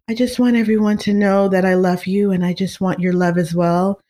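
gentle and soothing, just lightly voiced; a hint of a singer's calm, melodic speaking voice. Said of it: "She has such a calm voice".

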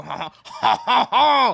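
mock French laugh; exaggerated French "ha, ha" warm-up; French noises. Shown as a demonstration. Showing friends how French people start, mock French noises. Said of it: "That's the noise they make".

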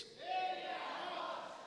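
the whole crowd shouting it loud. Shown as a demonstration. Congregation repeating after the preacher, loud shout. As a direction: shout it strongly. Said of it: "bem forte".

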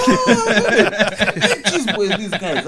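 high, loud mock reaction, laughing; wife's exclamation. Host acting out wife's reaction to the cheese boys, exclaiming.

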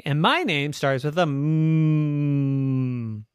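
slow, lightly voiced little girl; a hint of a small girl, drawn out; Mary's voice. Little girl Mary introduces herself.

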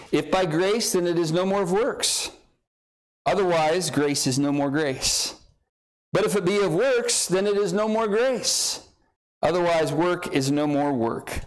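measured verse reading with pauses. Shown as a demonstration. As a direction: take the verse clause by clause, pausing after each. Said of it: "I'll read it a little slower".

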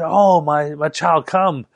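retold glad, eager welcome; excited welcome. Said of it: "he was so excited to see me".

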